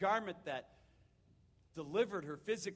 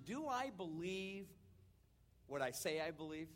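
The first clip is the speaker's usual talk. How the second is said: quiet self-doubt; 3 semitones lower, 7 dB quieter than usual. Acted. Voicing a doubter's question.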